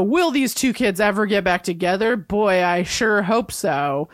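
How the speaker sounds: a hint of a radio host signing off; radio announcer voice. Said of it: "does this, like, radio announcer voice".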